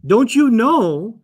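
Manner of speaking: "Don't you know?" slow, drawn out, accusing; slow pointed question. Shown as a demonstration. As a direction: spell it out to someone playing dumb. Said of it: "pretends they don't know it at all".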